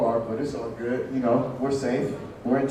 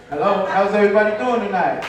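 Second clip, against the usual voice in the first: comic restarting his greeting with more energy; mild energy boost; 2 semitones higher, faster than usual. Real, not acted. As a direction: greet the crowd with more life. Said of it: "that's better".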